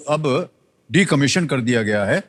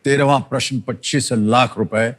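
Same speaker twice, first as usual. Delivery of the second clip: booming prize announcer. Acted. Host announces next prize.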